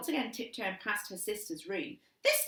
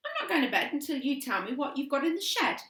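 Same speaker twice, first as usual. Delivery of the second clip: defiant announcement; 7 semitones higher, 6 dB louder, faster than usual. A narrator's reading. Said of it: "announced Annabelle".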